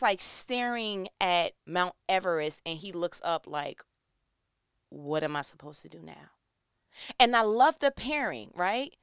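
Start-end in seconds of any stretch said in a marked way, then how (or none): 4.9-6.3 daunted mutter. Acted. Voices husband overwhelmed by huge task.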